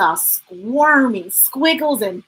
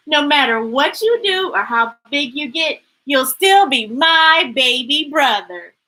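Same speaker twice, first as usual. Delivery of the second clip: teasing; 3 semitones higher, 4 dB louder than usual. Acted. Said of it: "Tony teased".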